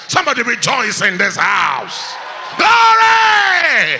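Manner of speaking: loud, rising call to rejoice; full-force preacher's shout; rejoicing shout. Real, not acted. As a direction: lift the church with a cry of glory.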